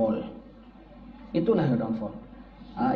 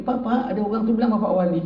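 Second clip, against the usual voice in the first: put-on higher childlike report; a boy running home to his father; child's voice; 6 semitones higher than usual. (anak kecil mengadu kepada bapanya)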